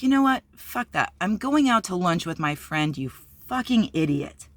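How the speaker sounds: a mild mock telling-off; defiant. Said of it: "and I'm like".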